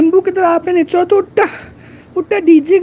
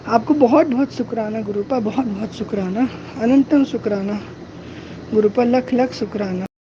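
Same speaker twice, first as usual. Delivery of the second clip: hushed thanks; 6 semitones lower, 6 dB quieter than usual. Real, not acted. Fading devotional thanks to guru.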